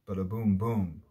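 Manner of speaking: "bada" quick and light, "boom boom" two heavy beats; light then heavy. Shown as a demonstration. Teacher sounding out the metre, light "bada", stressed "boom boom". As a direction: skip over "bada", land hard on each "boom". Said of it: "one foot very light and then the following foot very heavy".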